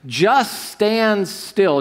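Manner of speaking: drawn-out, deliberate command; slow quoted command. Shown as a demonstration. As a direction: lay each word down slowly, firm. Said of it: "It says this".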